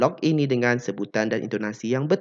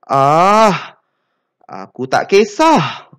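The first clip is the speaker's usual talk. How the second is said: indifferent shrug; 4 semitones higher, 8 dB louder, much slower than usual. Shown as a demonstration.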